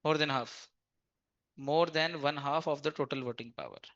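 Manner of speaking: very slow, word by word; slow reading of the act. Shown as a demonstration. Teacher reads the statute to the class, very slowly. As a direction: read the legal text out deliberately. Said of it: "अब देखना जरा क्या लिखा है".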